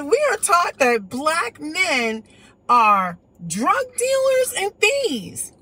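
slow, deliberate mock quoting; slow retold quote. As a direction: drag out "drug dealers and thieves" word by word. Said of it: "she said".

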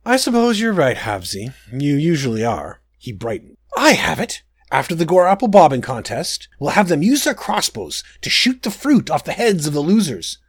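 a spoiled prince defending himself; petulant prince. Acted. Prince voiced.

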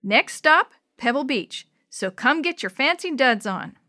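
conductor announcing the next stop; train conductor calling. Acted. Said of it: "He sounded like a railroad conductor".

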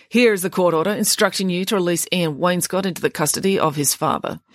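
reading a children's novel aloud with lively voiced dialogue; story narration. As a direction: tell the story to listeners, voicing each character. Reads novel aloud to listeners.

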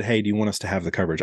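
a quick, quiet, throwaway question; offhand quick ask. Retold or imitated. Clerk tossing the question off to the customer, quick and soft. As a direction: rush it out softly, no sales pitch. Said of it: "I kinda just said".

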